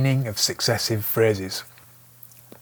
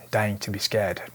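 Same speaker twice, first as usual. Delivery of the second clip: slow reveal. Shown as a demonstration. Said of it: "Flip it".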